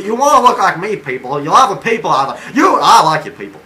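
loud, hammed-up bragging at the viewers; mock boastful voice. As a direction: play the self-important big shot, loudly. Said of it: "Why, why am I talking like this?".

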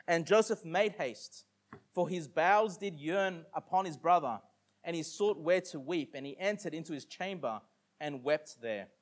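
slow, deliberate Bible reading; measured King James reading; scripture reading. Acted. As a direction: read the verse out to the congregation.

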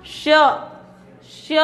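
"श्य" pressed out with a y after the sh; sh with y-glide. Shown as a demonstration. Teacher showing students where pressure falls, y-glided "श्य". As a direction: press the tongue towards the palate for "श्य". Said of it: "यहाँ pressure पड़ रहा है बोलने में".

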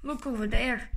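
low, menacing monster. Acted. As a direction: rumble it like a big beast. Giant threatens and laughs.

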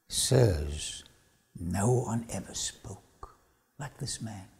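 low, slow, hushed answer; hushed report. Retold or imitated. Soldiers explain to superiors why they came back, hushed. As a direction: drop right down, slow and quiet, as if humbled.

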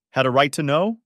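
outraged, rising retort; incredulous echo. A narrator's reading. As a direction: throw the words back in disbelief. Mother throws daughter's words back.

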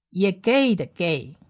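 usual speaking voice

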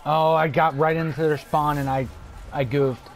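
loud urgent callouts; yelling from the sidelines. Real, not acted. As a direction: shout warnings to the team. Calling out during firefight.

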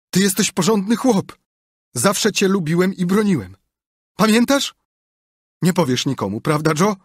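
desperate pleading Potter. A narrator's reading. Potter begs Joe not to betray him, frantic and high. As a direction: plead for your life, voice climbing.

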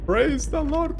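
high, slow, hammed-up sermon cry; drawn-out, high-pitched speechifying; screamed speech. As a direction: proclaim it like a mock preacher. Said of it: "I just screamed".

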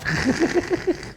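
high rapid giggle; short high-pitched cackle; naughty giggle. Real, not acted. Laughing at own innuendo.

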